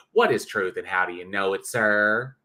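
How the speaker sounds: rough attempt at a nasally Kentucky impression; Mister Batman, nasally Kentucky. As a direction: lightly put on a nasal Kentucky twang. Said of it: "it's very kind of nasal, kind of a nasally Kentucky".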